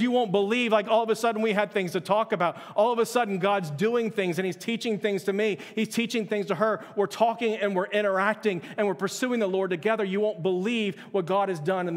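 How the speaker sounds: bubbling over as you pass on his joy; excited retelling. Retold or imitated. Pastor quoting a husband's amazement at their Bible time, excited.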